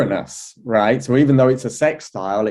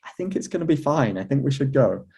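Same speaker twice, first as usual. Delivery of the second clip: higher, softer and quicker, mock-coaxing friend; friend's reassurance; 4 semitones higher, 4 dB quieter than usual. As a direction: lightly voice the friend talking you into it, higher and softer. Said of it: "he was just like".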